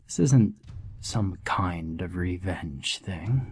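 giggly sinister sing-song. Acted. Sinister clown explains his test.

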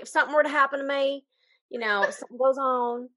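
light, fast put-on twang, not quite the right accent; mock twang accent. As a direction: toss off a quick half-hearted twang. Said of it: "That's not the right accent, but I have to twang".

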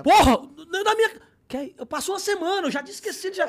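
loud, high shocked yell; shocked outburst. Retold or imitated. Realizing it really was Neymar, loud and high.

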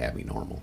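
abnormal said as "Abby Normal"; Young Frankenstein mispronunciation. Retold or imitated. Quoting a film gag to podcast co-hosts, abnormal said as "Abby Normal". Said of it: "kinda like Young Frankenstein".

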